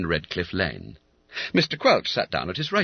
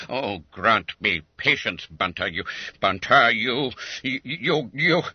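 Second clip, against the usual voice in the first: spluttering. Acted. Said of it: "Words seemed to fail".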